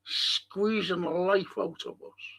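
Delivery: slow, unvoiced whisper; hushed whisper. Real, not acted. Host condemning the old manager to fans, slow grim whisper.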